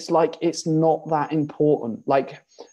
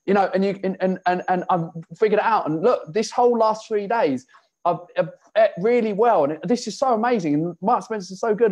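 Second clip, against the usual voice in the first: gushing client; 4 semitones higher than usual. Retold or imitated. Client gushing about her week.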